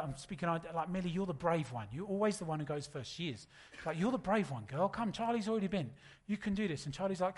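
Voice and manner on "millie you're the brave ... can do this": coaxing daughter. Retold or imitated. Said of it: "I'm speaking to her".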